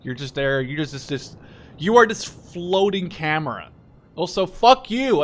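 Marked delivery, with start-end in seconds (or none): 1.8-5.2 slow, louder jokey jab; mock annoyed. Real, not acted. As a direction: draw it out like a playful insult. Venting at the game character.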